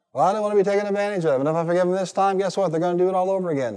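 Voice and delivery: fast, high mock complaint from an unforgiving person; whiny objection. Preacher mimics someone who won't forgive, fast mock whine. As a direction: rattle it off like a grumbling excuse.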